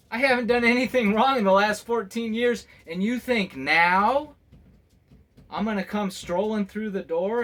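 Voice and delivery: half-laughing exasperated protest; indignant. Real, not acted.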